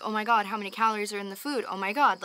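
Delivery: anxious racing thoughts. Retold or imitated. Voicing anxious thoughts after dinner.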